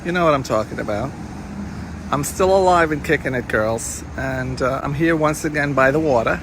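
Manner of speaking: lightly voiced old-school Miami Beach diva; a hint of a breathy vintage showbiz purr; Goldie Goldstein voice. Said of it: "I wanna show one of your alter egos".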